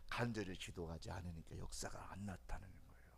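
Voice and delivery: unvoiced confiding whisper; whispered aside. Preacher confiding a warning to the congregation in a whisper. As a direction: whisper it like a secret.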